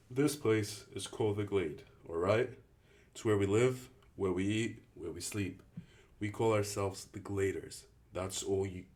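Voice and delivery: put-on showing the new kid around with authority; a hint of a proud camp leader; Albie explaining.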